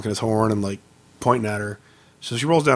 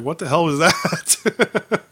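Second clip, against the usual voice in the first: mother-in-law's surprise; 4 semitones higher, much slower than usual. Retold or imitated. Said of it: "her mom was like".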